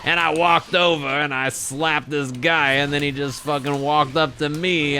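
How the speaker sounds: mock text-to-speech storyteller; TikTok voice guy. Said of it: "TikTok voice guy that's just like".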